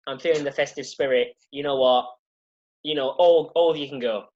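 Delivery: put-on accent dropped, level matter-of-fact delivery; unaccented, monotone quote. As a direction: read the officer's line in an even monotone.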